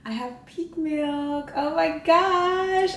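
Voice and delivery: high, drawn-out gushing; excited. Real, not acted. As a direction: gush slowly, pitch soaring with delight. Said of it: "I'm so excited".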